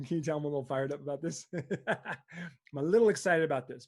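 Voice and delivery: self-aware chuckle after a rant; amused. Real, not acted. Coach admitting to listeners they got excited, chuckling. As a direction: laugh a little at yourself. Laughs at own outburst.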